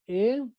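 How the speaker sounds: "ejercito" broken into e, jer, CI, to, with long pauses; split into syllables. Shown as a demonstration. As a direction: say "ejercito" one syllable at a time. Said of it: "La sílaba tónica está en sí".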